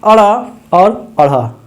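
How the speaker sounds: अड़ा and अढ़ा with the tongue flapped, not डा ढा; flapped consonants. Shown as a demonstration. Teacher drilling pupils on flapped sounds. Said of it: "डा ढा नहीं बोलिएगा".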